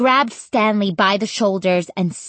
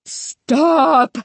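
high, raised cry; screamed command; 8 semitones higher, 4 dB louder than usual. A narrator's reading. Stanley raising the book at scarecrows, screamed order. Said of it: "Stanley screamed".

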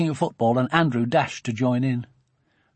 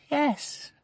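high, much softer, weak yes; feeble yes; 13 semitones higher, 7 dB quieter than usual. A narrator's reading. Dawn answering Sophie feebly, a soft high weak yes. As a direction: barely get the word out, cowed. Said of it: "feebly the hypnotized rabbit answered".

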